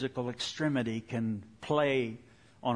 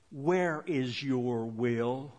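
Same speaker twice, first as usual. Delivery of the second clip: slow, calm voice of God; much slower than usual. Retold or imitated. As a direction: ask it slowly, without pressure. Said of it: "as calmly, a voice came to me".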